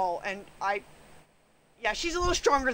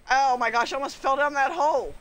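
startled; 6 dB louder than usual. Real, not acted. Near fall.

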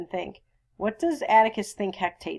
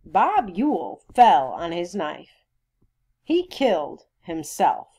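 slow, louder, deliberate statement; stolid; 6 dB louder, slower than usual. Acted. Sheriff giving Mister Finch his version, stolidly. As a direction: lay down each word as settled fact. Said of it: "Mister Tate said stolidly".

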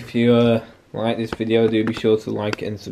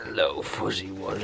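whispering; 4 semitones lower, 10 dB quieter than usual. Real, not acted. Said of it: "Whisper that, mate".

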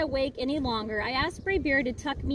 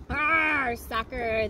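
crew yell; much slower than usual. Acted. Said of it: "the crew yelled".

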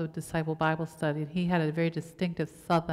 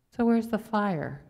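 loud rallying cry; 5 semitones higher, 4 dB louder, slower than usual. Real, not acted. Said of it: "Where are we gonna go?".

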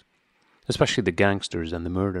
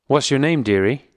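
put-on higher, louder boozy old woman; coarse old woman; 5 semitones higher, 5 dB louder than usual. A narrator's reading. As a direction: coax him like a tipsy old woman. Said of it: "she said".

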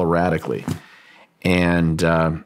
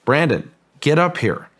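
higher-pitched mock call from a distance; half-voiced holler, raised in pitch; retold shout; 6 semitones higher than usual. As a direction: imitate calling someone up, without real volume. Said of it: "start shouting down".

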